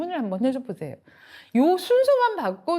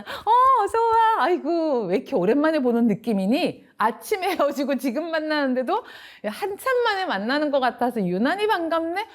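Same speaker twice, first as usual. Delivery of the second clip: delighted welcome; 5 semitones higher than usual. Shown as a demonstration. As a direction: greet the child as if long missed, overjoyed. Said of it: "라고 한번 해줘 보세요".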